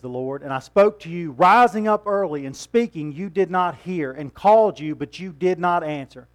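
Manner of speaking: stern rebuke. Retold or imitated. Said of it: "He says".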